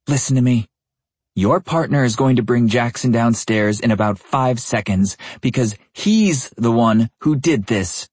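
steely. A narrator's reading. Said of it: "The steel in her voice".

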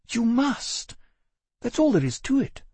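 high, curt and final; dismissive. A narrator's reading. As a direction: end it with no room for argument. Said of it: "She almost rolled her eyes".

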